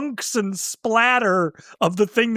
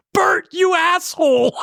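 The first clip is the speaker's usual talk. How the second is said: high, mock-outraged yell; retold yell; 10 semitones higher, 4 dB louder than usual. Imitating Melvin yelling at Bert over the empty gun, mock yell. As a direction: call it out high, playing the cheated victim. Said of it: "And he yells".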